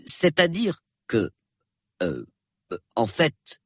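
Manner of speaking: slow, halting start full of pauses; hesitant stalling. A narrator's reading. Husband cornered about the council meeting, hesitant. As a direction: stall before an awkward admission.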